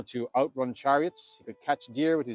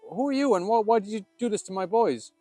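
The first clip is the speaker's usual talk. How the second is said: loud, raised demand of a king; indignant king confronting the boy; angry king; 8 semitones higher, 5 dB louder than usual. Acted. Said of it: "He says".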